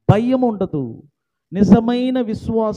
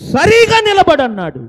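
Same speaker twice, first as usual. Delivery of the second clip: raised loud order to stand; said loudly; 8 semitones higher, 8 dB louder than usual. Retold or imitated. Preacher retelling Paul's command, loud. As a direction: call it out with full authority. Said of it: "బిగ్గరగా అన్నాడు".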